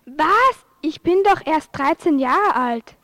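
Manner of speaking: indignant surprise. Acted. Told to join king's bride choice.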